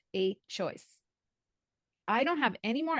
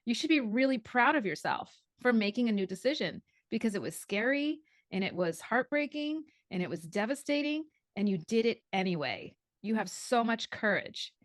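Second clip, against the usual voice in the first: reassuring friend. Retold or imitated. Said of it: "He's like".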